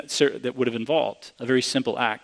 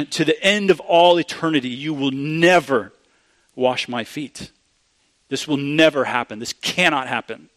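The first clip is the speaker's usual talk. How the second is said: emphatic refusal. Retold or imitated. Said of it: "The Greek really is that emphatic".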